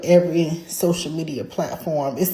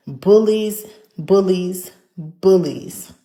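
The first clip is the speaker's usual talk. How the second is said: angry; 4 dB louder, much slower than usual. Real, not acted. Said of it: "I'm so angry today".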